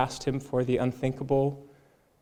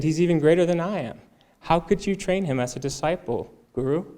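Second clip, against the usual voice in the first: higher, heated protest to the guru; a retold outburst of indignation, pitched up; jealous warrior confronting his teacher, angry and raised; furious Arjuna; 5 semitones higher, 3 dB louder than usual. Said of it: "Arjuna was especially furious".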